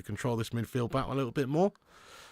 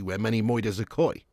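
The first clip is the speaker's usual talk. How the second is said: put-on New Jersey accent; 2 semitones lower than usual. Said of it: "Is that in New Jersey".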